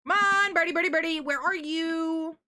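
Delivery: high sing-song bird calling; coaxing a wild bird. Acted. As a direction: coax the birdie out, high and loud. Calling birds with duck call.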